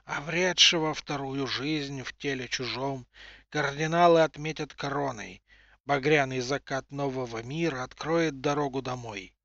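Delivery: hoarse sepulchral rustle. Acted. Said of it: "сиплым загробным голосом прошелестела".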